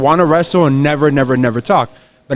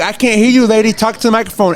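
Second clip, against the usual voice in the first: higher, taunting; mocking heel; 5 semitones higher than usual. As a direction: taunt the old lady. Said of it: "And I'm like".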